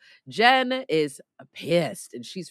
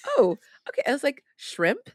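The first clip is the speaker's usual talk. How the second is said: mock bewildered; 10 semitones higher than usual. Mock bewildered reactions, retold.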